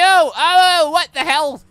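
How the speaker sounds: ordinary delivery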